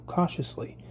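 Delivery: unvoiced whisper; old stag warning in a whisper. A narrator's reading. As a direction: breathe the word without voice. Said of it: "The old stag whispered".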